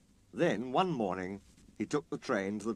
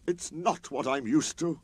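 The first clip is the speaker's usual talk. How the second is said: rebellious; 4 semitones higher than usual. Acted. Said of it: "clanked Sir Handel rebelliously".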